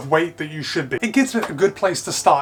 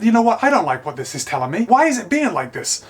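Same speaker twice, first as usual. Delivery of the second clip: mock irritation; 3 semitones higher than usual. Shown as a demonstration. Reviewer faking annoyance to test a voice tracker, mock irritated. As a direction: act cranky so the band reads you as irritated. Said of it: "now it's showing me irritated, angry".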